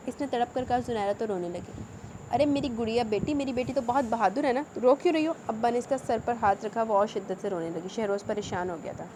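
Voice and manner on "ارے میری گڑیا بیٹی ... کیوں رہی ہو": tender comfort. Acted. Father comforts crying daughter.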